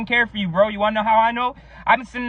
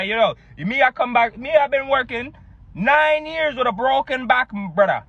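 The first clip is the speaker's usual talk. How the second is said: put-on Jamaican accent; 2 semitones higher than usual. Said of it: "what's up with Jamaicans".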